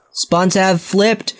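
slow whispered callout. Real, not acted. Gamer repeats spawn callout in a slow whisper. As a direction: breathe the words out.

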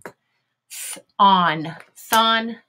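airy Th-, on, then blended thon; teacher blending thon from its sounds; sounding out. Shown as a demonstration. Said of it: "Here we go".

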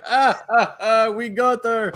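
high, gloating mock voice; mock Russian officials. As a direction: crow it like sly captors who just caught her. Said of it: "They're like".

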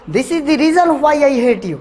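each word laid out slowly for learners; slow, clear teaching read. Shown as a demonstration. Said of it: "दो तरीके से बोल सकते हो".

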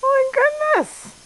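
drawn-out exasperation. Real, not acted. Exasperated at barking dog.

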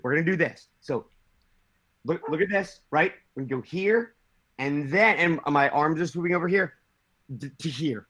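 Kevin impression. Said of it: "I have a Kevin impression".

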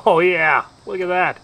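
loud, delighted exclamation; excited exclamation. Real, not acted. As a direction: call it out, thrilled. Loud reaction after tasting dip.

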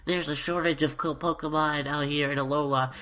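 funny voice. Acted. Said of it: "in a really funny voice".

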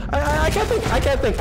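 stammering, high-pitched fluster; freaking out. Real, not acted. Streamer with twelve hundred people watching, freaking out. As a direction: trip over the first word, flustered and high. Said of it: "I'm freaking out".

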